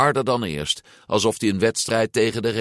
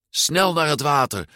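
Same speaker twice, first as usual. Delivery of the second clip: urgent order; 8 semitones higher than usual. A narrator's reading. Urgent order while fleeing.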